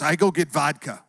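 put-on Russian accent; mock Russian-accented declaration; Mike the Russian. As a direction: imitate a determined Russian neighbor. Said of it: "he always talks like this".

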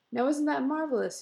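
thrilled and marvelling; beaming delight. A narrator's reading. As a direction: cry it out proudly, beaming. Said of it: "he cried, beaming".

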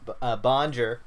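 hesitant, anglicised "Bonjour"; clumsy French greeting. Real, not acted. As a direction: stumble into "Bonjour" like a bad tourist. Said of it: "not even a half-ass attempt".

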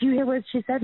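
retold indignant question; imitated indignant appeal. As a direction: appeal to onlookers, imitating his disbelief. Retells man appealing to the cops.

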